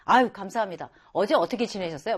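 quick, breezy friendly thanks; brisk cheerful thanks. Acted. An outgoing person greeting an elder, fast and cheery. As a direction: thank them warmly and brightly, quickly. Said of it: "막 이런 사람 있잖아요".

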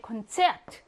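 콘체아트 with a short e in 체; short stressed vowel. Shown as a demonstration. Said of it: "짧게".

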